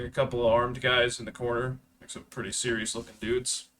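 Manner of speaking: ordinary talk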